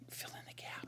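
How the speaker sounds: very soft whispered filler; barely audible murmur to yourself; hushed aside. Real, not acted. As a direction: whisper it under your breath while busy writing. Murmured aside while writing, filling dead air.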